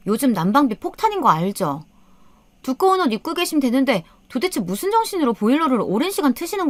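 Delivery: high-pitched scolding daughter-in-law; angry nagging. A narrator's reading. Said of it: "아껴 쓰자며 잔소리를 해댔습니다". (언성 높여 잔소리하며 따지듯)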